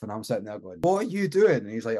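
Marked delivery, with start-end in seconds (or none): 0.8-1.6 higher-pitched incredulous question; retold disbelief. Passenger sees the driver switch the engine off, retold with high disbelief. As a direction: question him in mock alarm.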